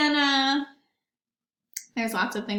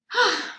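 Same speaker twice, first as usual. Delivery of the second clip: big tired exhale; heavy sigh; 8 semitones higher than usual. Real, not acted. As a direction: let out a long breath. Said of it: "needs to take a breath".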